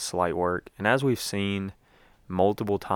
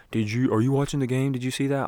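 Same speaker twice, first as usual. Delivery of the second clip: higher, quick, excited questions; excited mock texters; 6 semitones higher, faster than usual. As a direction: imitate fans buzzing over what they just saw. Acting out excited texters after dunk.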